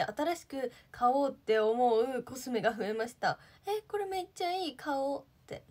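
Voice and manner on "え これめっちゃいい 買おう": higher-pitched delighted reaction, acted out; mock-excited shopper's exclamation, pitched up; excited discovery. コスメを試した時の自分の声を再現. (コスメに感激した声の再現、高めに)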